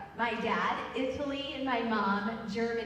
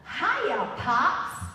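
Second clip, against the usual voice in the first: bright, louder "Hiya, Pops" greeting; cheery greeting; 5 dB louder than usual. Retold or imitated. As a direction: greet him brightly, a bit loud. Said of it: "greeting him with a".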